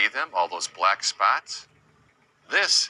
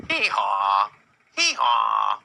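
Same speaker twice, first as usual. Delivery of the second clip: donkey bray; 2 semitones higher, slower than usual. Retold or imitated. Teacher showing children how a donkey goes, playful bray. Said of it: "A donkey goes".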